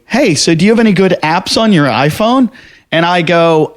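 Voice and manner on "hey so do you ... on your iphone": higher-pitched, chatty radio co-host; imitated traffic girl. Traffic girl asking guest about apps, imitated higher voice. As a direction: lightly mimic a curious traffic reporter. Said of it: "the traffic girl goes to me".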